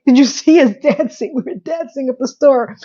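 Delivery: lightly hammed-up mother voice; imitating an excitable mother; mother's excited gushing.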